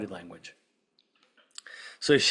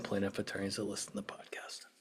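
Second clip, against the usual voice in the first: a real whisper, confiding to listeners; whispered aside; 5 semitones lower, 15 dB quieter, faster than usual. Real, not acted. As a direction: breathe it as a sheepish side note. Aside to plaintiff attorneys.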